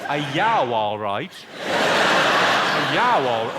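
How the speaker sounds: loud Brummie mimicry, all smeared vowels; exaggerated, swooping Birmingham vowels; mock Birmingham accent. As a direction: imitate a garbled Brummie heckler. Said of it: "That was just all vowels".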